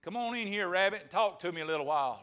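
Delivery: wolf calling out from his cave; mild storyteller's holler; hollered invitation. Acted. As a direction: holler a coaxing invite to passersby. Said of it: "the wolf hollered out there".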